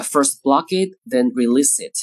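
slow, punchy block and release; slow demo of blocking and releasing air; block then release. Shown as a demonstration. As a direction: show the stop then the burst. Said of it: "突然冲破的这个特点".

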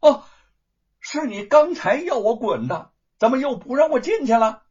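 high, loud mock-innocent protest; loud retort. Wu Cheng'en teasing the gatekeepers, loud retort. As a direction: turn their words back on them loudly. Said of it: "吴承恩大声的说道".

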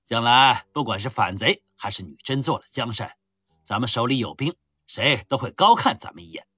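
loud swaggering army commander; boastful rough general. Acted. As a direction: brag loudly over wine. Drunken general boasting at a feast. (粗豪自大的将军大声吹嘘)

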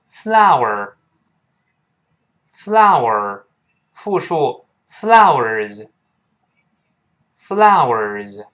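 very slow, separated "flower", then "flowers"; model pronunciation. Shown as a demonstration. Teacher modelling the word, very slow and drawn out. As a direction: draw out "flower" with every vowel glide. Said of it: "我们读一下花这个词".

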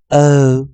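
"O" held as a long vowel, loud; each "O" separate, full and loud. Shown as a demonstration. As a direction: model the long "O" sound for students. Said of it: "我们把O去读成长元音".

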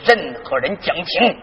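low, stern father's voice laying down the law. Acted. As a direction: speak as a strict old father forbidding everyone. Father scolding his children.

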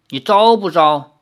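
loud stern magistrate demand. Acted. Magistrate demands the prisoner confess, stern and loud. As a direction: press the prisoner hard.

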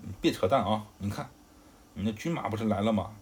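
loud burst on the opening words; mildly angry accusation. Acted. Zhang Fei points at approaching troops, loud mildly angry accusation.

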